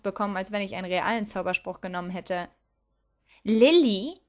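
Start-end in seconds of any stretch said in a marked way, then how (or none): 3.4-4.2 loud, threatening rising question. A narrator's reading. Petunia warns her sister by name, threatening. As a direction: call the name as a warning. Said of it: "Petunias Stimme klang bedrohlich".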